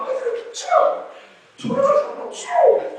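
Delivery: high, loud put-on retort; hammed-up high exclamation; excited mock retort. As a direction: toss it off high and loud, half-acting yourself. Preacher acts his own retort.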